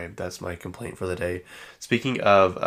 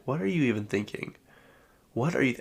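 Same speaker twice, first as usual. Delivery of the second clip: incredulous; 5 semitones higher than usual. Retold or imitated. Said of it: "I'm like".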